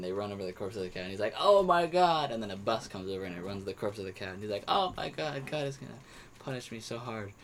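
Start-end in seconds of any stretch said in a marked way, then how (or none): 1.4-2.3 loud, high wail in a mock Indian accent; put-on Indian accent, hammed-up dismay; imitated Indian accent. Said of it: "I did that accent". 4.7-7.3 mock Indian accent, starting high and sinking; put-on Indian accent, dismay fading out; imitated Indian accent. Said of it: "I did that accent".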